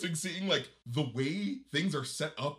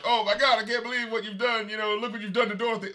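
higher, worked-up imitation of an exasperated man; hammed-up disbelief, pitched up; mock outraged rant; 6 semitones higher than usual. Retelling Sinbad's reaction to the crash, mock outraged.

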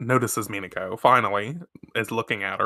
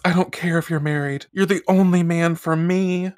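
melodramatic lovesick voice; 7 semitones higher than usual. Retold or imitated. Dramatic love confession quoted.

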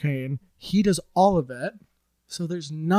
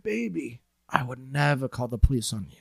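soft sweet-talk; 4 semitones lower, 8 dB quieter than usual. Retold or imitated. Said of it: "And he said".

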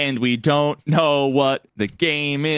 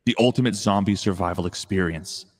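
horror trailer voice; 3 semitones lower than usual. Pretend. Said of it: "stock trailer voiceover".

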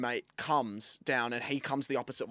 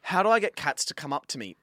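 ordinary delivery

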